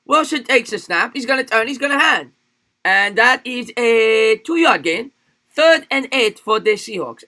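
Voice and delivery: high, loud mock Chinese accent game call; attempted Chinese accent. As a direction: announce the play in an exaggerated Chinese accent. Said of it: "Call the game with a Chinese accent".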